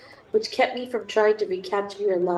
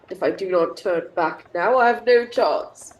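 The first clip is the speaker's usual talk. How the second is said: lightly put-on blustering officer; mock his hearty bluster; pompous gent voice. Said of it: "I'm not gonna do voices".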